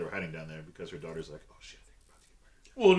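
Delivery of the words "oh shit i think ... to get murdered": high, loud panicked imitation; mock panic. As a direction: blurt it out in comic terror. Voices the panicking daughter.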